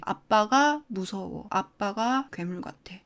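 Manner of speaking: slow, hushed imitation of a scared child; frightened child imitation. Child hiding behind mom from drunk dad, acted fearful. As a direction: play a timid child, drawing out each word softly. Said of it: "아이가 나와서 엄마 뒤에 숨으면서".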